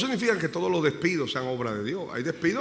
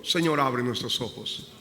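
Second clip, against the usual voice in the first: prayer; 3 semitones lower than usual. Real, not acted. Pastor begins prayer.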